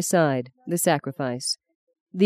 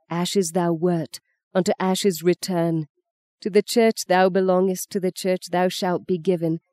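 quoting the priest; 2 semitones higher than usual. Retold or imitated. Mother mimicking the priest's solemn words. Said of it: "he said that night".

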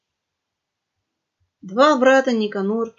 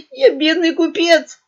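higher, tearful whine; whining; 7 semitones higher, 6 dB louder than usual. A narrator's reading. Poor merchant pleading with pirates, whining tearfully. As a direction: whimper out the excuse. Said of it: "заныл тот в ответ".

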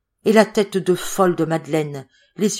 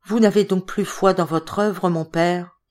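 tags 1. Acted. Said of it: "de sa voix harmonieuse et calme".

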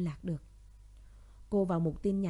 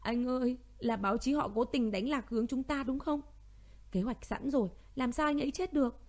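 sobbing; 4 semitones higher than usual. Acted. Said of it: "Tuệ Lâm nức nở".

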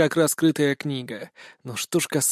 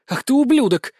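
high-pitched outburst of anger; angry exclamation; 9 semitones higher, 4 dB louder than usual. A narrator's reading. Wolf girl cursing her brother, angry high exclamation. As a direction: cry out the insult, pitch leaping up. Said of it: "воскликнула волчица".

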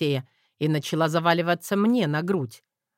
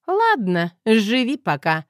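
higher, louder teasing mother; giggling mother; 6 semitones higher, 6 dB louder, slower than usual. A narrator's reading. Mother giggling at her son, higher and louder. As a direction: chuckle the mock threat. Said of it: "хихикнула любящая мамуля".

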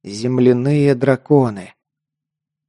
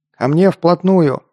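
higher, drawn-out rallying call; called-out order; 5 semitones higher than usual. A narrator's reading. Narrator-hero orders his comrades to close in, called out. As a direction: call the group in with a slow, raised cry. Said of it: "крикнул я".

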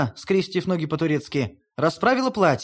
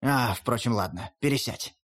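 a lower, softer grumbling grandfather wolf; 6 semitones lower, 4 dB quieter than usual. A narrator's reading. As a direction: give in grudgingly as the old wolf. (ворчливо уступает, низким голосом)

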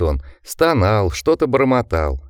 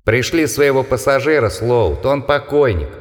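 menacing monster voice; 3 semitones higher than usual. Acted. Monsters threatening through window.

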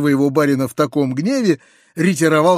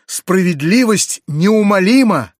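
louder, slow, higher pronouncement; stern declaration; 5 semitones higher, 5 dB louder, slower than usual. Acted. Uncle to his nephew, solemnly declaring justice. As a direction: proclaim it like a verdict.

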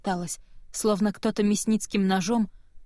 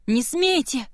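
shout; 6 semitones higher, 3 dB louder, slower than usual. Acted. Girl screaming at soldiers.

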